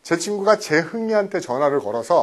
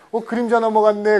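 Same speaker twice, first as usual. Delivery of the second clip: playful teasing, a little higher; teasing provocation; 4 semitones higher than usual. Retold or imitated. Naughty deskmate taunting the girl beside him, teasing. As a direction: needle her cheekily. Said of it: "자꾸 도발을 하죠".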